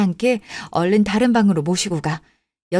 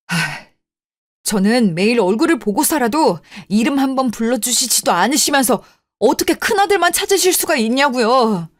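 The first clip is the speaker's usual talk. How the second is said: bitter reproach; 3 semitones higher than usual. Acted. Youngest son to his mother about who really cares for her, bitter reproach. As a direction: pour out years of resentment.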